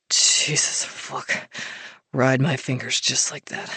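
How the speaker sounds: low whispered growl; husky whisper. A narrator's reading. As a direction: command him in a whisper. Hero aroused, whispered low.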